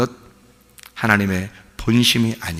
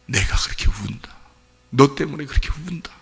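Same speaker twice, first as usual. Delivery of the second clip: God; 3 semitones higher than usual. Retold or imitated. God telling the weeping believer why, hushed sorrowful voice. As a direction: drop to a hushed, sorrowful confession. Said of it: "말씀하시는 것 같아요".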